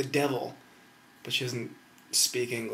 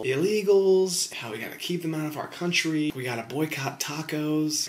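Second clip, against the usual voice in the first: mock old lady ranting, loud and high at first; imitating grandma's rant; 4 semitones higher, 4 dB louder than usual. Grandma derailing family chat, hammed-up rant. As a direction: ham up a cranky right-wing grandma. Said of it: "Grandma will just chime in and just go on some, like, Fox News, right-wing".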